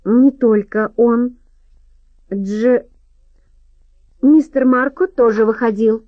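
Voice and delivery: a narrator's hint of a steely woman; metallic voice. A narrator's reading. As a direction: say it cold and metallic, word by word. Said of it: "заговорила металлическим голосом".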